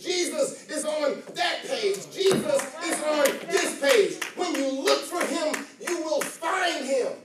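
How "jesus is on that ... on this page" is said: slow, louder, each page punched; building refrain. Acted. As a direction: hammer each page home. Preacher's climactic refrain.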